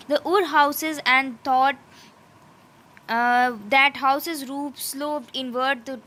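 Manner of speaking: slow, deliberate reading of English text; slow textbook reading. Acted. Teacher reading the textbook passage to students, slow and careful. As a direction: read it out word by word, slowly.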